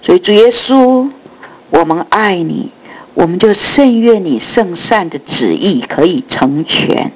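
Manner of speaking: earnest spoken prayer. Real, not acted. Opening prayer. (虔诚祷告)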